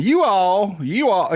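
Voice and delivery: mocking drawn-out you all; mock yokel saying you all. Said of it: "you kinda sound dumb walking around saying".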